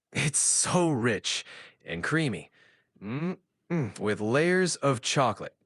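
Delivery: drawn-out dreamy food talk; savoring. Acted. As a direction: relish each word like rich cake. Savoring dessert.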